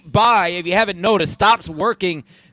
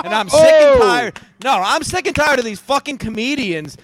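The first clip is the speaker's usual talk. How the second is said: angry rant; 4 semitones higher than usual. Real, not acted. Ranting at comedians.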